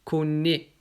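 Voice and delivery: connaît slowly, ending on closed é; acute ending. Shown as a demonstration. Teacher gives an example before T, closed é in connaît. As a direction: say connaît as "co-né", t silent. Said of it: "quand il y a un T après".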